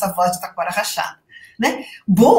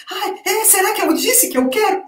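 mock bashful student; 10 semitones higher than usual. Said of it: "Aí a pessoa fica".

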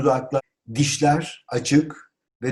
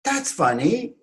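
high-pitched amused exclamation; 9 semitones higher, slower than usual. Shown as a demonstration. Teacher models reacting to something funny, exclaimed. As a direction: cry it out brightly, pitched up. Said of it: "Tabii ki haykırmanız gerekiyor".

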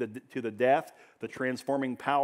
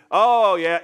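mocking atheist; 6 semitones higher, 12 dB louder than usual. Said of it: "he would just get under their skin".

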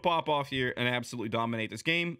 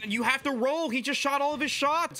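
urgent call; 14 semitones higher, 4 dB louder than usual. Real, not acted.

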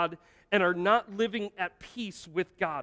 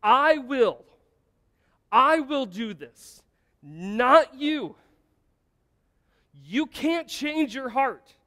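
voice of the Lord; 5 semitones higher, 7 dB louder, slower than usual. Acted. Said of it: "The Lord says".

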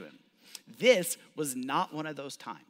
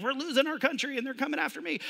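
higher, mock panicked worrier; mock alarm; 8 semitones higher, faster than usual. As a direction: play the anxious citizen, half-joking. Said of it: "You're like".

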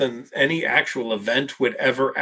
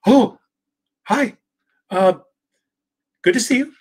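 much higher puppet voice, friendly greeting; Grover voice; 12 semitones higher, 3 dB louder than usual. Retold or imitated. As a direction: chirp it like a furry puppet saying hello. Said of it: "there's Grover and he says".

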